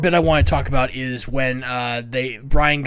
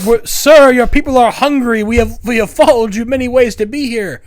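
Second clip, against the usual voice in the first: higher, louder, gushing crowd plea; pleading followers; 8 semitones higher, 7 dB louder than usual. Retold or imitated. Followers begging Brian, in a hammed-up high plea. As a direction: beg the Messiah in a silly high voice. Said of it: "And he's like".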